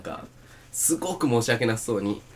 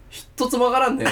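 after laughing hard; 13 semitones higher, 4 dB louder than usual. Real, not acted. Laughing about untranslatable joke.

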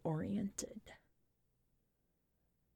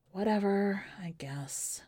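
whispered, giving up on it; resigned whisper; 6 dB quieter than usual. Acted. Narrator shrugging off her ex, in a resigned whisper. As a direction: let it die away in a breath.

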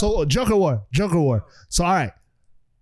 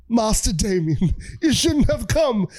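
Alfred; 4 semitones higher, slower than usual. Retold or imitated. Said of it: "And he's like".

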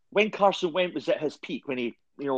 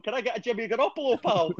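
put-on a light Scottish accent, pitched higher; 7 semitones higher than usual. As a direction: order at the chippy in a Scottish accent. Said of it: "try saying Jimmy Garoppolo in a Scottish accent".

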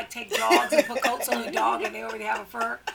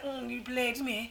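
quieter mock British line; mock British accent; 3 semitones lower, 9 dB quieter than usual. Imagining herself as Idris in Cats, mock British accent. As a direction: play a badly faked British actor. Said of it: "British accent".

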